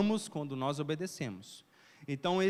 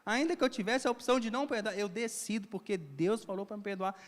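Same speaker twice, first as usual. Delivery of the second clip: raised, fervent vow to forgive; fervent resolve; 5 semitones higher than usual. Retold or imitated. Preacher voicing love that chooses to forgive, fervently. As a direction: declare it like a conviction. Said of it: "É esse amor".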